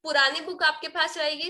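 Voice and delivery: normal talking voice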